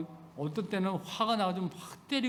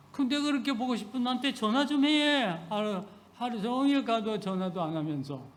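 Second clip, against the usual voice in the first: mock daughter talking back; 6 semitones higher than usual. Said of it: "이렇게 말을 해".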